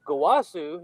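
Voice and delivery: mildly surprised call of the name; surprised Goku. Retold or imitated. Mocking how Goku says his master's name, mildly surprised. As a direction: blurt it, mock clueless surprise. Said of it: "surprised and shit like he always does".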